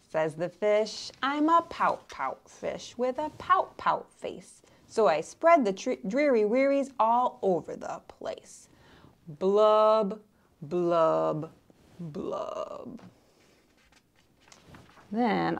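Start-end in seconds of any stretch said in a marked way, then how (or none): 1.2-8.7 lightly voiced glum fish; a hint of a sulky fish; pout fish. 9.4-13.0 fish bubbles dying away; fish blubbing. Acted. Fish blubs fading.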